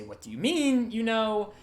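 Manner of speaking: high-pitched bewildered question; pleading to understand, voice lifted high; confused disbelief. Acted. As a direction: ask it baffled, pitch jumping up. Acted startled reply to confession.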